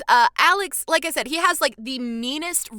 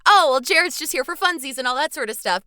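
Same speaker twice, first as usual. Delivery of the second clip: dismissive dog voice; 4 semitones higher, 5 dB louder than usual. Pretend. Voicing the dogs' attitude.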